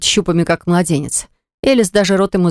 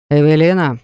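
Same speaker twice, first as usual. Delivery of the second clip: warning threat. A narrator's reading. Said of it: "угроза от Лерда".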